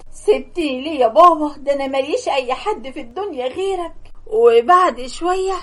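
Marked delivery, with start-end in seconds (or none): 0.1-3.9 sobbing. Acted. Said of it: "انهارت من العياط وقلت".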